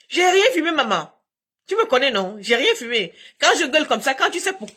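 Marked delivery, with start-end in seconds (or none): 0.1-3.1 mock plea to mum. Mock plea addressed to mother.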